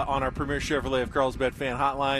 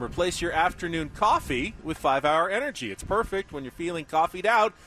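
radio ad read; 2 semitones higher than usual. Acted. Live sponsor read on air.

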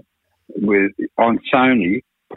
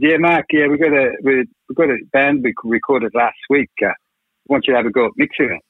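lightly imitated Scottish producer, slightly raised; a hint of a bad Scottish accent; 5 semitones higher than usual. Producer asking him to mix a band, light Scottish accent. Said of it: "doing a bad Scottish accent".

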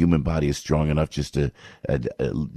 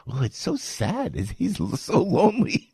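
mock pity; 11 semitones higher than usual. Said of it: "Greg goes".

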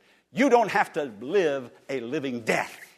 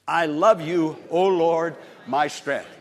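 loud, ringing declaration of the verse; proclaiming scripture; 6 dB louder, slower than usual. Acted. Preacher reading verse to congregation, ringing loud. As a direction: call the verse out to the Lord.

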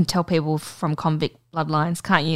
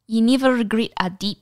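mock Kiwi white-boy accent; New Zealand accent; 3 semitones higher than usual. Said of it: "the white boy New Zealander accent".

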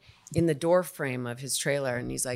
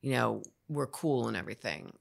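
non-apology; 2 semitones lower than usual. Retold or imitated. Co-star excusing himself to the actress after an outburst, non-apology. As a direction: toss off an apology you don't mean. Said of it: "he gave me a non-apology apology".

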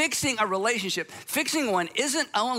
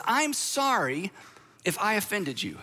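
a slow, measured non-apology; drawn-out stock apology, mildly acted. Shown as a demonstration. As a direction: say it like a routine apology. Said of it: "we say things like this".

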